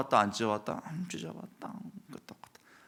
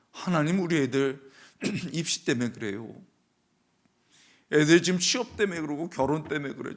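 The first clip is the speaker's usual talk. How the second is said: higher, pleading voice near tears; tearful mother's prayer; 7 semitones higher, 4 dB louder than usual. Retold or imitated. Weary mother praying at dawn for her children, tearful plea. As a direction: beg God for your children, voice rising. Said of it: "하면 운 거 아닙니까".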